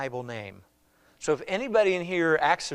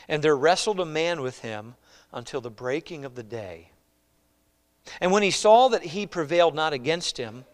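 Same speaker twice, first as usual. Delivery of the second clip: scripture reading. Acted. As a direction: read it out for the congregation.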